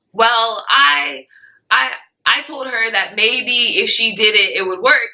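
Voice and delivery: high, slow nervous stammer; stuttering nervously. Retold or imitated. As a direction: stammer it out, caught off guard. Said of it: "she's, stuttering".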